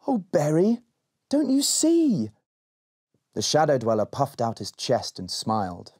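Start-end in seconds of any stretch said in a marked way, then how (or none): 0.1-2.3 giggling. A narrator's reading. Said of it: "Rowan giggled".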